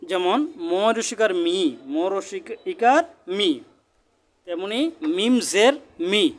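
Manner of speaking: slow, drawn-out spelling ending on "মি"; teacher spelling out "মি" deliberately; short-i demonstration. Shown as a demonstration. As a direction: show "মি" with a clear, held ee vowel. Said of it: "জেরের উচ্চারণ হ্রস্ব ইকারের উচ্চারণ হয়".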